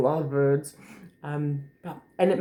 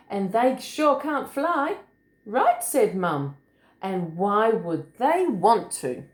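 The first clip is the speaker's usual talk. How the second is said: lilting, high bouncy hops, then settling; story reading to children; 4 semitones higher, slower than usual. A narrator's reading. Adult reading a picture book to a small child, lilting.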